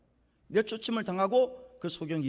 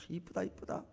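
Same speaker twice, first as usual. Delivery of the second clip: soft, imitated fondness; affectionate cooing; 9 dB quieter than usual. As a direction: praise it softly, as an owner to a loyal dog. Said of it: "이렇게 좋아하는 거예요".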